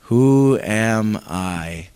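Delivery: low, slow, sinking question; downcast echo. Pretend. Congregation repeating Moses' doubt, low and slow. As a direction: let it drop, small and doubtful. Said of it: "Say that".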